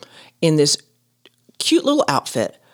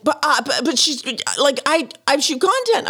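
flustered protest; 8 semitones higher than usual. Retold or imitated. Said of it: "I was like".

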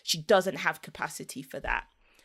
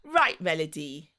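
forced sunshine. Retold or imitated. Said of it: "I bring all the sunshine".

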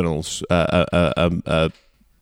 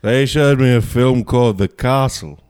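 louder, put-on Australian critic grumble; hammed-up cranky old reviewer; grumpy Stratton impression; 3 semitones higher, 4 dB louder than usual. Stratton grumbling about The Castle, put-on cranky voice.

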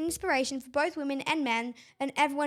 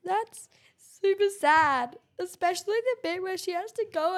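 whisper; 2 semitones higher than usual. Real, not acted. Listener reacts in whisper.

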